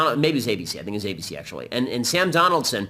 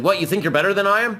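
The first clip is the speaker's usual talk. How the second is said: retold angry retort; 6 semitones higher, 3 dB louder than usual. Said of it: "he got very angry at me".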